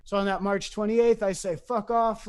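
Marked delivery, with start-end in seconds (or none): 1.6-2.3 higher-pitched mock send-off; retold angry curse. Him leaving everybody for the road, mildly angry. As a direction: tell them off, only half-heated.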